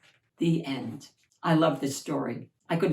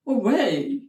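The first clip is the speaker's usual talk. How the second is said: mild shriek; 4 semitones higher, 4 dB louder than usual. Acted. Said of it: "shrieked the prince".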